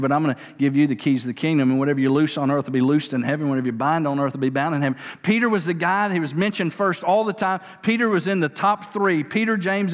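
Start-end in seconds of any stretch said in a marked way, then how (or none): 0.0-5.0 urgent fast quote. Retold or imitated. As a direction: rush the promise with conviction, stress on "you". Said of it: "He said".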